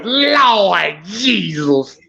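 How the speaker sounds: a slow, drawn-out hint of a funk musician. Shown as a demonstration. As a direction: stretch Lord Jesus out very slowly. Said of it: "In my Bootsy voice".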